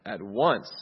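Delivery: emphatic command. Acted. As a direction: demand it with force. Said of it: "He's more emphatic".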